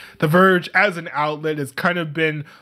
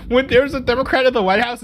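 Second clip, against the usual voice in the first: "When there's a Democrat in the White House" lifted higher in mocking disbelief; incredulous mock quote; 5 semitones higher than usual. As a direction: quote it back like it's absurd. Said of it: "why would you say".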